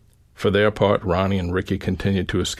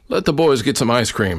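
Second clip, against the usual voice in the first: calling out; 5 semitones higher, 5 dB louder than usual. A narrator's reading. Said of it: "my father called out".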